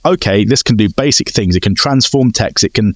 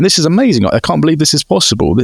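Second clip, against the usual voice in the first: mock excitement; 4 semitones higher than usual. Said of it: "I'm going".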